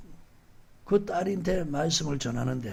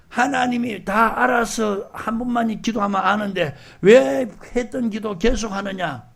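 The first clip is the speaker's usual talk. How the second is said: retort to a critic; 3 semitones higher, 4 dB louder than usual. Retold or imitated. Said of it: "답할 수 있어요".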